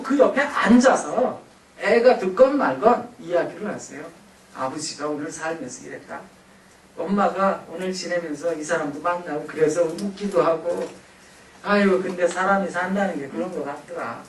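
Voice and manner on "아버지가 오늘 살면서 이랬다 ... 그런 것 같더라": put-on soft, relaxed everyday chat with the child; gentle sharing. Shown as a demonstration. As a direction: talk softly like a friend. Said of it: "이런 이야기도 하세요". (아이에게 하루를 들려주는 부드러운 말투)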